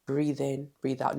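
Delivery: soft breathing cue. Shown as a demonstration. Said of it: "If you're feeling nervous".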